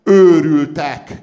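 slow, high, loud cry of "madmen"; shouted. A narrator's reading. Wang Gansi stepping out to the people, shouting. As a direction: hurl the word at the crowd. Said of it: "kiáltott Wang Gansi".

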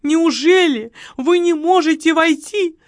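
sugary plea for sympathy; pleading widow. Acted. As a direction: wheedle him like a helpless widow. Margarita pleading with the marquis.

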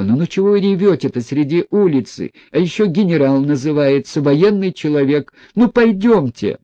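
rising to a loud, high scold; exasperated scolding. Acted. Boy scolding weeping general.

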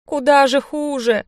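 high, slow, near-hysterical wail; the thug losing his nerve, voice cracking up. A narrator's reading. Panicking thug despairs at pink rabbits, hysterically. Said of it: "послышалась истерика".

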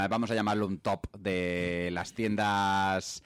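slow, low seductive announcer; sultry narrator. Pretend. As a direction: draw it out like a late-night radio host. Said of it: "la voz sensual".

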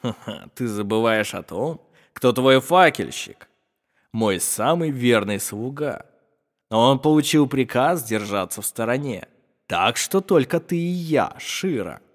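a lightly voiced sneering villain with a laugh; mocking villain. Shama gloating at Shira, lightly voiced sneer. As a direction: gloat over her coldly. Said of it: "Шама тихо засмеялся".

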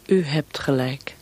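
slow whisper into the dark; a slow, secretive whisper. Acted. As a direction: hush it out slowly as if unseen. First reply to the prisoner.

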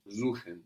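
"Suchen" begins with a voiced Z, zoo-khen; German S as Z. Shown as a demonstration. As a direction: buzz the S of "Suchen" like a Z. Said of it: "So an S vowel syllable gives us a Z sound".

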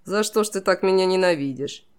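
mock-tender question in a shifted king voice; a hint of sentimental royal tenderness; touched. A narrator's reading. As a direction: play it falsely moved. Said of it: "растроганно посмотрел на девушку и добавил".

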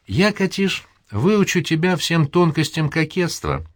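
high, slow, affected society voice; coquettish mother. A narrator's reading. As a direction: savour the lesson in flirting. (жеманно и медленно)

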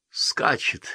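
thin, breathless little voice. A narrator's reading. A second gasping thinly that the rider is coming. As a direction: squeak it out thinly. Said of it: "тонким голосом произнёс".

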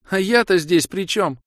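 high, loud, drawn-out female voice; indignant protest. Acted. Kira protesting she is not involved, indignant. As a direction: protest your innocence, high and slow.

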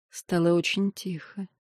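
ordinary delivery

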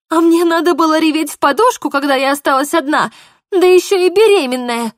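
high, loud wounded anger; bitter outcry. Acted. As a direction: hurl the old hurt at him. Polina's tearful accusation.

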